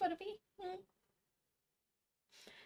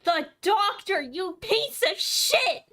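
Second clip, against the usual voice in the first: angry curse; slower than usual. Real, not acted. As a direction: spit it at the villain. Cursing villain in game.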